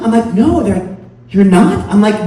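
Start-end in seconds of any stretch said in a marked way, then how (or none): 0.3-0.6 high, louder one-word denial; exasperated denial. Acted. Mistaken man answers a disbelieving stranger, exasperated. 1.3-1.9 loud, higher, rising disbelief; double-check it in disbelief; incredulous question. Acted. Stranger still doubting the mistaken man, incredulous.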